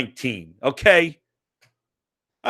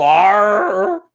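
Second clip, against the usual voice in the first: mock pirate; 4 dB louder than usual.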